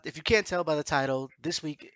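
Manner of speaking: normal talking voice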